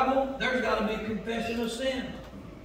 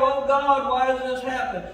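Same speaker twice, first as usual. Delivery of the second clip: mock crying out; 3 semitones higher, 6 dB louder than usual. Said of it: "they would cry out".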